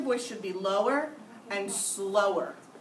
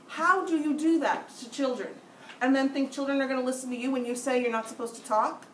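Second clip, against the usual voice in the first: indignant; 4 semitones higher than usual. Real, not acted. Teacher scolding colleagues for hypocrisy, indignant. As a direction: demand it like you can't believe it.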